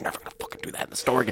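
furious shout squeezed into an angry whisper. Retelling a dad in a store scolding his son: mimicking a silent angry yell. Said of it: "silently but aggressively like yelling at the son".

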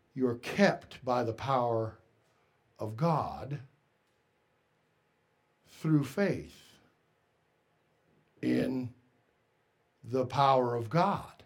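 slow, low, deliberate, halting, word-by-word reading. Reading a passage aloud again for listeners: reading slowly. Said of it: "Let me read it slowly".

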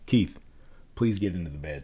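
intonation falling and settling down on "bed". Demonstrating how hearing a name sets up alertness, with a downward tone. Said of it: "I'm using a downward tone".

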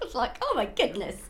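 put-on shocked, horrified voice. Speaker acts out the listener's horrified reaction to recording outside: imitating a shocked voice. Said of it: "looked at me in horror and went".

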